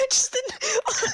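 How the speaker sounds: high squeaky alien voice. Acted. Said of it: "I said no alien voice".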